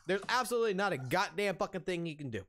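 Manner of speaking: normal talking voice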